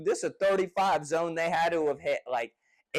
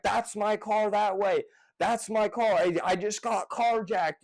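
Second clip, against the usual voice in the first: higher-pitched, mildly panicked pleading; retold panic; 5 semitones higher than usual. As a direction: re-enact frantic explaining without shouting. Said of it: "in a complete fucking panic".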